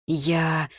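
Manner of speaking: stretched word left hanging; hesitant, unfinished start; breaking off. A narrator's reading. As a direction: start to answer, then stop short. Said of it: "осёкся он".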